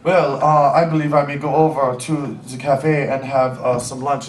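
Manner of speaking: halting, careful English like a German speaker; German accent. Retold or imitated. Man across the table suggests lunch, low German accent. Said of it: "he's like".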